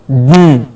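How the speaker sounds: "Mm" with no vowel, through the nose; nasal N sound. Shown as a demonstration. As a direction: hum the nasal ending "Mm" by itself. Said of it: "It becomes a nasal N sound".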